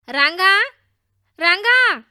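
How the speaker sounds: loud, high shout from outside; calling out. A narrator's reading. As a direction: holler a friend's name. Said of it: "ఎవరో పిలిచినట్టు అనిపిస్తది".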